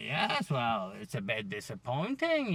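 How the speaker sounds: put-on botched German accent; Helmut Marko. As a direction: attempt a German accent, badly. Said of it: "that's not a German accent".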